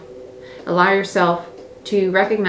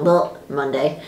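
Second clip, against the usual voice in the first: glum; 7 semitones lower, slower than usual. Retold or imitated. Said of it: "You're not waking up and thinking".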